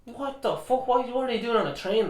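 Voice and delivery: high, disbelieving outburst; incredulous, voice jumping up; surprised. Real, not acted. Reacting to train fact.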